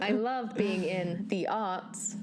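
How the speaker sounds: slow, drawn-out mock grandeur; mock reverence. Joking to co-host about the arts, mock reverence. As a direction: savour each word with mock devotion.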